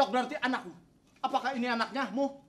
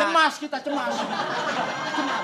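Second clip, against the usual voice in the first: dramatic pauses between words; milk the pause for suspense; drawn-out dramatic pause; 3 semitones higher, 5 dB louder, much slower than usual. Acted. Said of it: "Bapak ngomongnya jangan diputus gitu loh".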